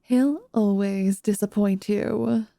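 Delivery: mock the villain's speeches with contempt; scornful Serena. Serena mocking the fallen villain, slow and scornful.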